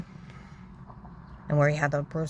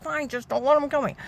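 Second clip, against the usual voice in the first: high, loud re-enacted plea; retold pleading; 10 semitones higher, 6 dB louder than usual. Speaker pleading for life, loud and high. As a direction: plead loudly, giving in under threat. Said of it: "I start pleading for my life".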